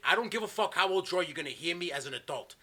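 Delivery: loud retold scolding; re-enacted telling-off, starting high and loud; letting him have it. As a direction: act out laying down the law to a kid. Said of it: "I just let him have it".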